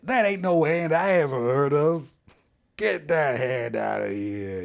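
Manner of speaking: put-on folksy voice for a disbelieving brain; indignant brain. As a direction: act out a brain rejecting what it sees, drawing out the dismissal. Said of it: "your brain is like".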